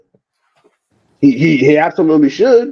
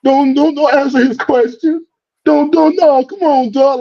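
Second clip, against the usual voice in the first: mocking a grown man; 10 semitones higher, slower than usual. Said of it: "talking about".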